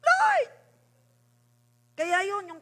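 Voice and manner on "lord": very high, loud shout upward; Moses calling out to God. Acted. Moses crying to the Lord, high loud call. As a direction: call out sharply to a distant God. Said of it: "Eh, noon si Moses".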